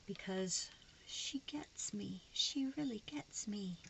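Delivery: slow, breathy whisper. Real, not acted. Vlogger gushing that her friend gets her, whispered. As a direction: confide it softly and slowly.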